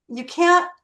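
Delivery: You can't jumps high and loud, rising; emphatic quote. Real, not acted. Emphatic start of favourite quote.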